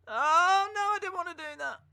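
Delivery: high, fast flustered oh no; surprised oh no. Real, not acted. Host messing up the stream window, high flustered surprise. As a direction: yelp at the mistake then rush on. Screen mishap while streaming.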